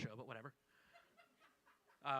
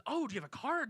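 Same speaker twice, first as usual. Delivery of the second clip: put-on higher-pitched take on an older guy; imitating an older guy, higher; older man; 6 semitones higher than usual. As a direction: lightly voice an eager older man. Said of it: "late fifties, early sixties".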